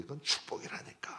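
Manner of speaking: breathy whispered assurance. Real, not acted. Pastor telling the congregation that hardship is blessing, whispered. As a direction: lean in and whisper it to the flock.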